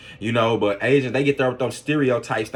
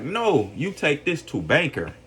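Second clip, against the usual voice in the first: slow, imitated Asian accent, higher pitch; imitated foreign accent; 4 semitones higher than usual. Shopkeeper refusing his pennies, imitated Asian accent. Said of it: "it was an accent".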